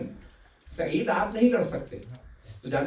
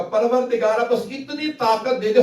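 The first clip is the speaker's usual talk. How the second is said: louder, higher pleading; anguished cry to God; 3 semitones higher, 4 dB louder than usual. Retold or imitated. Wounded companion cries to God.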